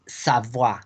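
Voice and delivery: Savoie as "sa-vwa", E silent; French Savoie ending in "wa"; French pronunciation. Shown as a demonstration. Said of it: "se pronuncia como una A".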